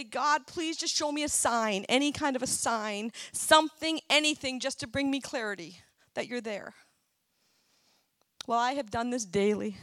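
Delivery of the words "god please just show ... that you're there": earnest plea, raised in pitch at the start; pleading. Acted. Believer begs God for a sign, pleading. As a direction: plead for it, leaning on each request. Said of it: "Have you ever kind of pleaded with God".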